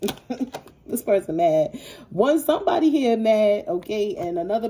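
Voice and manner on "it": higher, louder, mocking nosy voice; hammed-up side-eye question. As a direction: poke at them like a nosy onlooker. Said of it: "They're like".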